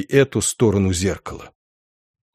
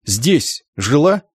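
slow, halting question with rising «жила»; self-questioning; slower than usual. A narrator's reading. Coachman asking himself about Zinka living here, slow wondering question. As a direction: ponder it word by word, ending upward. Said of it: "спросил он сам себя".

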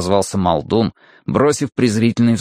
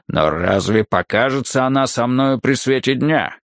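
rumbling brute. Acted. Muldoon's speech.

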